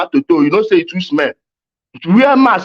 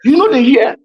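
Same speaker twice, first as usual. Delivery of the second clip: high shouting; 5 semitones higher than usual. Real, not acted. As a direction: shout it out, pitch climbing high. Heated quarrel, mocking accent.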